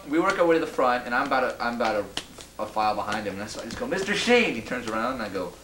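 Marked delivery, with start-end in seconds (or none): 3.9-4.5 calls out his name across the crowd, higher; retold call to a celebrity. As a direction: hail him over the crowd. Calling out to Sheen in crowd.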